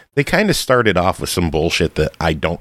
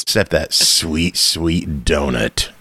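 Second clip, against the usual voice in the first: savoring; 4 semitones lower, slower than usual. Real, not acted. Savoring the donut memory.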